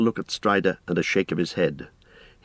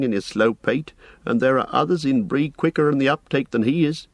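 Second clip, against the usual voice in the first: higher-pitched, chatty landlord voice; fretting innkeeper; 6 semitones higher than usual. Acted. Innkeeper frets that the village has guessed, worried. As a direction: ramble on with mild worry.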